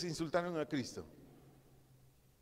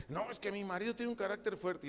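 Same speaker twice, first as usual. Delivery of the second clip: higher-pitched voice of a wife; complaining wife; 6 semitones higher than usual. Acted. Wife excuses her husband to the pastor, lightly acted high voice. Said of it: "señora".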